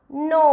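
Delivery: नो with the "oh" held; teacher's model नो with a stretched "oh"; long O sound. Shown as a demonstration. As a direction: draw out नो as "nohh". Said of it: "तो इसका उच्चारण निकलेगा".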